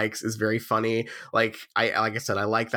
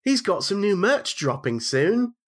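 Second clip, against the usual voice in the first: put-on high nasal teen bro voice; Ron voice; 9 semitones higher than usual. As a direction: play Ron as a clueless influencer fan. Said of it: "I like your Ron voice".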